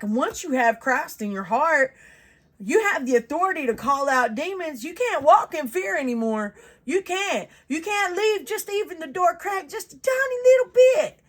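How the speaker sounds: high, insistent preaching, building in pitch; fervent exhortation. Real, not acted. Preacher warning believers not to walk in fear, fervently. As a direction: urge them on, pitch climbing to the end.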